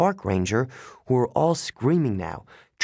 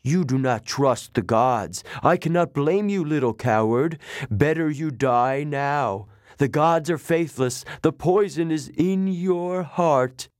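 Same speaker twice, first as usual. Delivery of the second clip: slow, higher monster taunt; scornful snake lady; 3 semitones higher than usual. Acted. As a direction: savor his defeat, drawn out and cold. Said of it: "Echidna told me".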